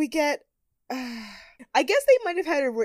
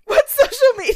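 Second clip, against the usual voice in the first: put-on clueless old woman; 13 semitones higher, 8 dB louder than usual. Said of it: "Erin's like".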